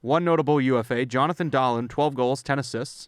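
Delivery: reading out of breath, a little winded; breathless after a long list. Real, not acted. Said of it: "'cause I'm out of breath".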